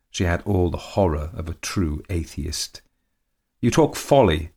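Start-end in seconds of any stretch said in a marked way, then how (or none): 3.6-4.5 mock-coy, lightly voiced countess; high and louder, teasing with an ogle; leering old lady. A narrator's reading. Countess to her husband, dismissing him with a leer. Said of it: "she said with a dreadful ogle".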